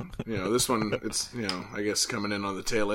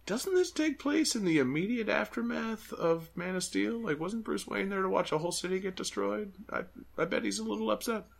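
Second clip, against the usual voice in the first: mock sarcastic voice; 9 semitones higher, 5 dB quieter than usual. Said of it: "I'm like".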